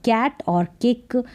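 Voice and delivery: "कैट और किक" slow with a clear क; slow demo words. Shown as a demonstration. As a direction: read them slowly, stressing क. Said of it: "सी को भी क". (धीमे, साफ़ क के साथ)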